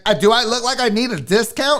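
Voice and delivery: mock-snooty retort; lightly put-on haughty indignation; uppity customer. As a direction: imitate an affronted, uppity customer. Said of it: "She's being kinda uppity".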